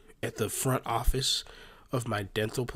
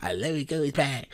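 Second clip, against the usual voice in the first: mock bragging; 3 semitones higher than usual. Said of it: "when you up, bro, it's like".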